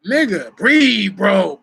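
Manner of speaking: urging shout. Retold or imitated. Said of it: "nigga, that, like".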